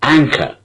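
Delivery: "Anchor" with a long stressed AN and short kor; "Anchor" with the final R dropped. Shown as a demonstration. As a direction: hit the first syllable of "Anchor". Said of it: "Two syllables".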